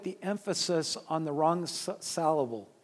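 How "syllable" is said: syllable with an A sound, "SAL-able"; syllable with its first vowel turned to a short A; attempted mispronunciation. Shown as a demonstration. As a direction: say syllable wrongly as "sallable". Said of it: "I don't know how to say it incorrectly".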